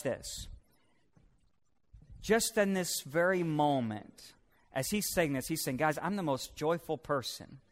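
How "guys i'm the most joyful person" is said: understated quote. Acted. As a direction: say it quietly, as a passing remark. First take of repeated quote.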